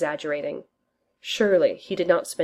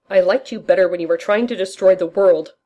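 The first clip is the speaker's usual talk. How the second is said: louder grumble at Loki; loudly; 6 dB louder than usual. Acted. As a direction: say it loudly, ears covered. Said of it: "Roger says loudly".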